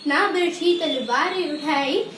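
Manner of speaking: rhythmic, sing-song school recital; poem recitation. Real, not acted. Pupil presenting a Children's Day poem to the assembly, sing-song recitation. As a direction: chant each verse in a lilting, regular beat. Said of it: "एक कविता प्रस्तुत करने जा रही हूँ".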